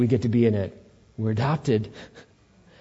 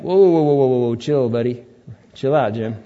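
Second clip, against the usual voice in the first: God calming him down; 2 semitones higher, 3 dB louder than usual. Retold or imitated. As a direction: rein in a hothead buddy, easygoing. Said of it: "And then the Lord's like".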